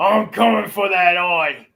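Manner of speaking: character battle cry. Voicing a character climbing a giant to attack: crying out. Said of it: "Grismite just starts crying".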